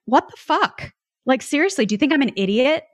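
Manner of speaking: high, indignant retort, lightly hammed; mock aggressive pushback. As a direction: fire back like you're insulted. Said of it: "I would be a little aggressive back".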